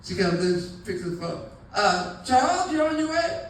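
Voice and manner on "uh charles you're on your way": higher, eager mother's voice; lightly voiced hopeful mother; hopeful mom. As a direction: sound expectant about the date.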